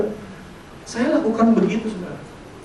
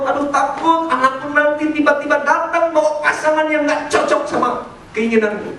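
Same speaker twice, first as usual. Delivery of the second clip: fretting parent, higher-pitched; mock worried parent; 6 semitones higher than usual. Parent afraid of the child's choice of partner, mock worried. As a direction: act out an anxious parent's worry. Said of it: "Jangan-jangan kau takut".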